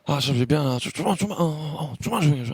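바비. Acted. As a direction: lightly imitate a sleepy, halting complaint. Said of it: "바비 형이 이제 자려고 누웠는데". (자다 깬 바비 흉내)

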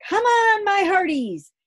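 high, loud pirate-style yell; excited yell. Acted. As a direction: cheer them on, dancing about. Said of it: "Angus danced around yelling".

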